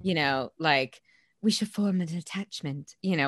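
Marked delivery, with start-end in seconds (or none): 1.4-2.9 badly faked Bridgerton period accent; terrible Bridgerton accent. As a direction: attempt a Bridgerton accent and miss. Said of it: "That was just a terrible accent".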